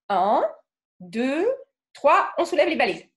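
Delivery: counting up to a heavy lift, strained at the end; straining to lift. Shown as a demonstration. Teacher counting the class into lifting heavy suitcases, straining. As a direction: heave it up like two heavy suitcases. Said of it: "vous allez porter quelque chose de très lourd".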